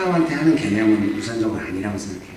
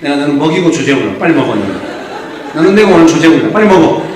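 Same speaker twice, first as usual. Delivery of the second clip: loud, furious order to eat; wife yelling at her husband to eat; angry wife; 5 dB louder than usual. Retold or imitated. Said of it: "부인이 열받아가지고".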